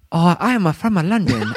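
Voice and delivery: hammed-up London accent through a laugh; a clumsy Cockney try, laughing; mock Londoner accent. Asked by friends for a Londoner, mock accent. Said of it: "how about do, uh, Londoners?".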